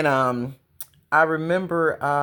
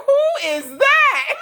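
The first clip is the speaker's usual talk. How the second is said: high, slow, drawn-out mock astonishment; shocked ex-husband; 5 dB louder, slower than usual. Imitating her ex-husband seeing her switch, shocked. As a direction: imitate him gawking, through laughter. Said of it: "He was just shocked".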